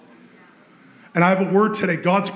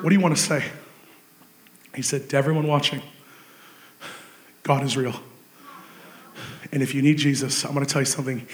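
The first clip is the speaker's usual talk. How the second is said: sober hush; 8 semitones lower, 6 dB quieter than usual. A narrator's reading. Solemn retelling after win.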